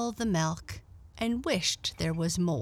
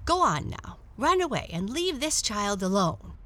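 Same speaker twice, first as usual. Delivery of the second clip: stern order; 4 semitones higher, 4 dB louder than usual. Acted. Blackie orders dog away.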